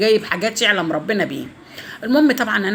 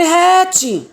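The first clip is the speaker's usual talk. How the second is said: high-pitched mock bark; imitated barked order; 9 semitones higher, 4 dB louder, much slower than usual. Man ordering her to hand over the bags, mock bark. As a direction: imitate his curt command, pitched up high. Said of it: "زعلت من شخطته فيا".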